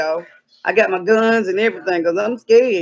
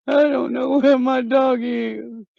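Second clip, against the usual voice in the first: mock wail; 2 semitones higher, slower than usual. Mock wailing over lost dog.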